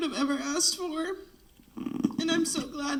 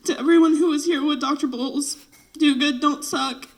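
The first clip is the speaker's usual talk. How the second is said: crying; 4 dB louder than usual. Real, not acted. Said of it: "the two criers".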